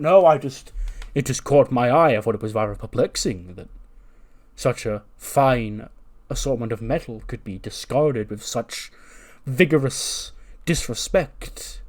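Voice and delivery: lightly voiced pompous puzzlement; a hint of ponderous indignation; perplexed formal janitor. Voices the formal janitor Keith Lee.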